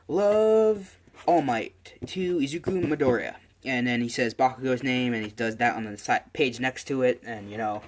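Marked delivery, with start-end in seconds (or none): 0.1-3.3 signing aloud. Acted. Voicing autograph while signing it.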